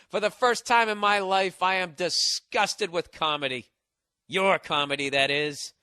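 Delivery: lightly voiced film noir narrator. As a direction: read it like a hard-boiled noir line. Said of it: "starts speaking like in film noir".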